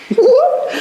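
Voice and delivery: sudden very high, loud squeak; voice-crack squeak. Real, not acted. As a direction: crack up into a falsetto yelp. Host's voice cracks, then explained.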